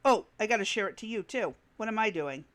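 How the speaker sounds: talking while chewing food; messy loud eating. Real, not acted. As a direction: mouth full, chomping between words. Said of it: "while I'm chomping away over here".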